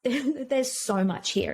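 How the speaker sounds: slow, laughing it out; a rueful chuckle at how much there is. Real, not acted. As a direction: let a small laugh carry the words. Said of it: "sighs, laughs".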